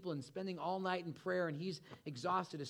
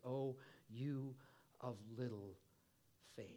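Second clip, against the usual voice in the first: much softer and lower, fading away; gentle rebuke; 4 semitones lower, 9 dB quieter than usual. A narrator's reading. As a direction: say it softly, sorrowfully letting it drop. Jesus rebukes sinking Peter.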